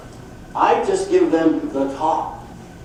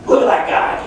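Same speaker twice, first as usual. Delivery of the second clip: laughing townsfolk; slower than usual. Retold or imitated. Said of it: "everybody would say".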